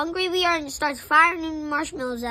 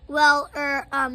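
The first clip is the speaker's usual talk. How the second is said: halting, hesitant stammer; 4 dB louder, slower than usual. Acted. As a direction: stumble over the words. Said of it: "he stammers".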